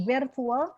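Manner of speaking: "virtual" begun on a clear v; voiced front sound. Shown as a demonstration. Teacher showing student the front sound, clear v. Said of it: "bunyi depannya wah ya".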